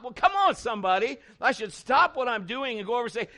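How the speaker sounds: rally the room, come on somebody; full-force sermon cry; fiery preaching. Real, not acted. Preacher whipping up congregation.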